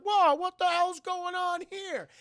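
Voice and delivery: high, slow startled cry; startled whoa. Retold or imitated. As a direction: act out a startled double take, slowly. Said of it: "He's like".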